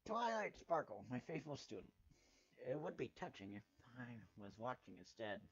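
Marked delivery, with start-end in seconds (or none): 0.1-1.9 regal princess. Acted. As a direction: speak like a proud royal mentor. Princess Celestia addresses Twilight.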